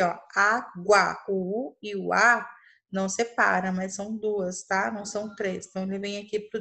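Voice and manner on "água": "água" said slowly, clearly in two syllables; slow demo word. Shown as a demonstration. Teacher shows pupils water's syllables, slow. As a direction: draw out "água" for the class. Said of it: "considera água aqui".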